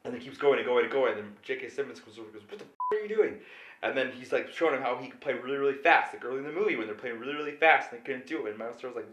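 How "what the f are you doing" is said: high-pitched, imitated outraged demand; retold exasperated challenge; angry confrontation. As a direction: demand it as an incensed conductor. Conductor confronts drummer, retold.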